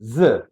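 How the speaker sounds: Z said as "zuh"; z plus vowel. Shown as a demonstration. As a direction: buzz the Z into a schwa. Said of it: "Kita tambahin vokal".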